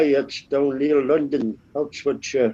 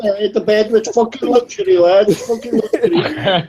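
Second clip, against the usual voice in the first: high-pitched comic scoffing; mock-indignant, pitched up; mock-scornful one-upmanship; 6 semitones higher than usual. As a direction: dismiss their hardship, hammed-up. Acting out hard-childhood one-upmanship sketch.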